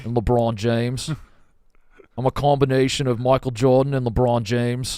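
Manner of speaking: Australian attempt drifting toward British; measured mock-Aussie introduction; wobbly Australian accent. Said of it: "You definitely have some, some British".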